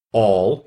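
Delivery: ALL landed hard, on its own; a single emphatic "All"; great emphasis. A narrator's reading. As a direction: hit the word "All" with weight. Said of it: "repeated with great emphasis".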